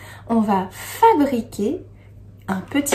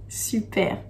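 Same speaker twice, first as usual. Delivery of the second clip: soft whispered "super"; a quick hushed well done; breathy little compliment; whispered praise; 9 dB quieter than usual. Real, not acted. Praising children after answer.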